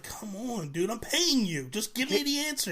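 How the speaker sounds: high-pitched whine for the answer; mock pleading. Caller begging the hotline for the answer, whining. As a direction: beg the operator.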